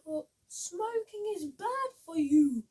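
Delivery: loud shocked scold; mild scolding exclamation; exclaimed. Acted. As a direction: call out in alarm. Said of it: "Betty exclaimed".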